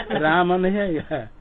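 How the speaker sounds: amused laugh while explaining. Real, not acted. Teacher laughs at mispronunciation. (हँसते हुए बोलना)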